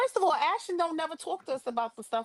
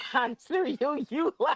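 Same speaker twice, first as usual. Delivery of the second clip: laughing; 5 semitones higher than usual. Real, not acted. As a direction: read out through a laugh. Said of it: "say it right".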